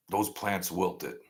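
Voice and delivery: slow, soft, grave; solemn hush. Real, not acted. Streamer solemnly repeating the plants' fate, slow and soft. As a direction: let it land quietly and slowly.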